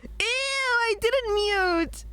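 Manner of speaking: high, slow, disgusted whine; cringing surprise. Real, not acted. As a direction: groan at your own recording. Hears own clip, cringes.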